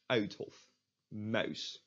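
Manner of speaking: "Uithof, muis" with the Dutch "ui" diphthong; correct Dutch pronunciation. Shown as a demonstration. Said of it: "Then you're basically there".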